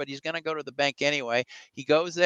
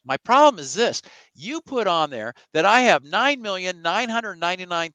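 louder, higher, mock-indignant complaint; upset; 4 semitones higher, 5 dB louder than usual. Upset grandson confronting the bank teller, indignant. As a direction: push the key words as if wronged. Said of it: "He gets really upset".

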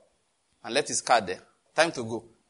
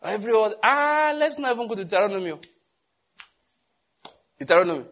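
fast, louder, higher; excited aside; 6 semitones higher, 5 dB louder than usual. Real, not acted. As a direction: rush the aside with a laugh.

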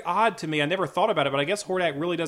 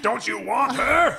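high, loud, slow mock wheedle; put-on pleading Valley Girl; wheedling; 9 semitones higher, 6 dB louder than usual. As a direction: coax in a hammed-up whiny voice. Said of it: "the wheedling voice of Dina".

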